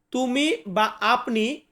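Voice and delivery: normal talking voice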